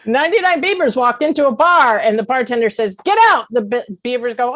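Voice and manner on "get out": high, loud bartender's order; sharp acted shout; barked order. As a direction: throw them out with a sudden yell. Joke: bartender throws beavers out.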